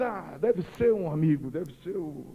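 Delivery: low, soft inner voice; inner thought, murmured. Retold or imitated. Player thinking it's a neighbour calling, quietly to himself. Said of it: "olhei para a arquibancada e disse".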